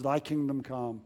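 a quiet, understated prayer to oneself; mild mock whisper. Weary believer looking up to the heavens, lightly imitated whisper. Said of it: "you can whisper those words".

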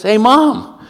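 high, eager mock child; kid's punchline. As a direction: pitch the idea like a clever kid. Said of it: "And the kid says".

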